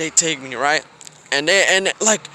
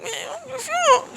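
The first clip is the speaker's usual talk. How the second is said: mock warning. Retold warning to classmate.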